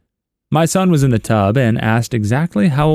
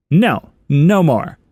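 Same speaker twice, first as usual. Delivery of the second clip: put-on slow, higher little-kid whine; child's whiny refusal; 5 semitones higher, much slower than usual. Stubborn child refusing to eat more beans, slow whine.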